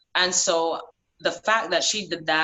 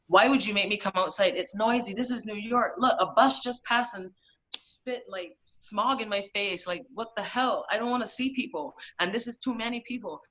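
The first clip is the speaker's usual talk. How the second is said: whiny complaining; 4 semitones higher than usual. Retold or imitated. Cussing out friend on street.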